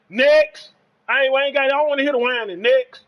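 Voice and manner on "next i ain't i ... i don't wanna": loud dismissal. Real, not acted. Friend whining over a Madden loss, so a loud "Next.". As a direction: cut him off and move on, loudly.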